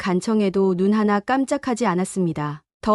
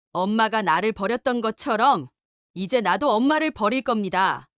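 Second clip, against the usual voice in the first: calm but firm. Acted. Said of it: "차분하게, 그러나 단호한 목소리로".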